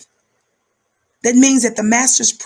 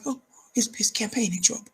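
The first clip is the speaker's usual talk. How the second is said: softer, half-whispered worry; quivering inner voice; 8 dB quieter than usual. Retold or imitated. Mocking a Biden voter's inner panic, hushed. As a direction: voice a nervous thought under the breath. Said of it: "something in you quiver, like".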